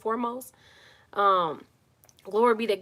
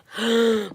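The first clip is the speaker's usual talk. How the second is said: startled gasp; 6 dB louder than usual. Real, not acted. Phone acts up during livestream.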